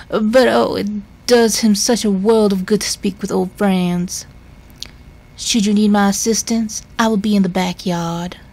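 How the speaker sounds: hint of a Southern Belle housekeeper, fussing kindly; Southern Belle drawl. Housekeeper announcing visitors in a mild Southern Belle drawl. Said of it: "now I'm going into, like, a Southern Belle drawl".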